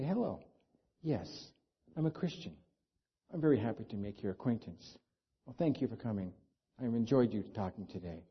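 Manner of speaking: soft, quiet, kindly greeting; gentle greeting. Pretend. Christian greeting a newcomer softly and kindly. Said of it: "with a gentle spirit".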